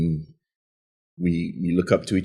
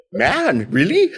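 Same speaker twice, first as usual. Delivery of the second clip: much higher, laughing squeak; crying disbelief; 13 semitones higher, much slower than usual. Retold or imitated. Son to mom, high laughing whimper. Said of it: "And I'm like".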